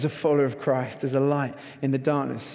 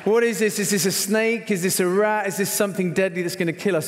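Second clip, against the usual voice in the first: higher, rising panic at the unknown animal; panicked questions; 4 semitones higher than usual. Retold or imitated. Husband on the hotel bed fearing a snake, panicky. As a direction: fire off scared questions.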